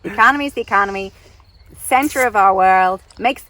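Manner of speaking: brash, condescending American caricature; hammed-up American know-it-all; the speaker's terrible American accent. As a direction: lecture in a put-on American accent. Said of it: "terrible accent of Francine".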